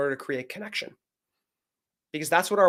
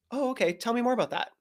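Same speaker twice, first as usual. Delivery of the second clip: higher, lightly curious invitation; gentle curiosity; 7 semitones higher, 5 dB quieter than usual. Acted. Husband inviting his wife to say more, gently curious. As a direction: softly invite her to go on.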